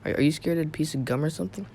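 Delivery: muttered under breath, quick. Retold or imitated. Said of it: "of course I didn't say it".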